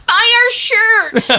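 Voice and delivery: high, loud, stretched holler; drawn-out comic sales yell; mock merch hawking. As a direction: plead desperately to the departing crowd. Needy comedians hawking merch to crowd.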